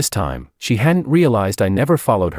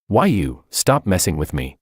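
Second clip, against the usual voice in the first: frantic. Acted. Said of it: "jumbled and frantic".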